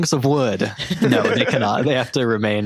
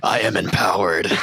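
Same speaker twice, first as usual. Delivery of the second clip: anime villain; 3 semitones lower than usual. Acted. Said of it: "breathes in like an anime villain".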